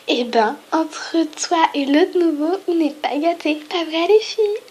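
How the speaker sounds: high, slow, mocking valley girl drawl; mean girl voice. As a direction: talk down to the new girl. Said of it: "je vais faire une voix de pétasse".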